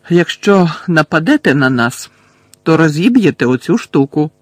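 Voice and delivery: stern warning. Acted. Harry warns Bellatrix not to attack, firm and loud. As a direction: hold the prophecy hostage, warn her off. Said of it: "застеріг він Белатрису".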